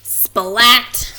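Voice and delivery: loud sudden exclamation; exclaimed. A narrator's reading. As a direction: burst out the name at the collision. Bump into Kitten.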